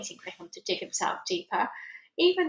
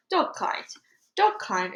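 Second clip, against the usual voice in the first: spluttering alien; 3 semitones higher, slower than usual. Acted. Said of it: "it spluttered".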